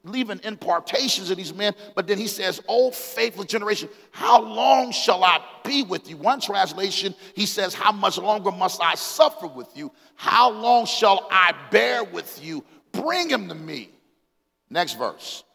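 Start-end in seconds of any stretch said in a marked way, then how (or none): 2.7-6.2 higher-pitched, exasperated rebuke; understated indignation, voice lifted; angry Jesus. Acted. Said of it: "He's angry". 7.7-13.9 mounting impatience ending in a command; fed-up teacher demanding an answer; angry Jesus. Acted. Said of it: "He's angry".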